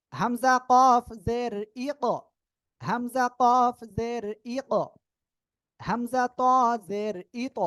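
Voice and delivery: slow held-pitch spelling, bouncing the end of ইক, ই ত, ইব, ইজ; qalqalah demonstration. Shown as a demonstration. Teacher showing qalqalah with zer, slow spelling and bounced ইক, ইব, ইজ. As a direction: draw out the spelling, push off the final consonant in ইক, ইব, ইজ. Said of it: "কলকার উচ্চারণটা একটু দেখাই".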